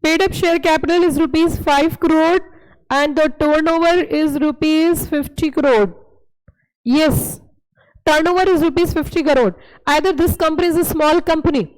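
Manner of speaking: very slow, word-by-word reading; slow dictation. Shown as a demonstration. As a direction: dictate the question slowly for notes. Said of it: "जवाब दे के बताएं". (धीमी, शब्द-दर-शब्द dictation)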